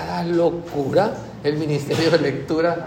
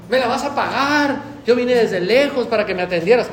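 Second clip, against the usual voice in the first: mock angry demand; 4 semitones higher than usual. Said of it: "Dime qué viene gritando".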